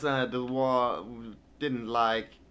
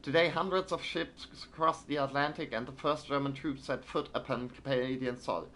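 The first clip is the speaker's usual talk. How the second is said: crisp newsreader voice, slightly higher; news read; 4 semitones higher than usual. Acted. Streamer reads a German newspaper like a newsreader. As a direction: read it like an old wartime newsreel. Reading in-game newspaper aloud.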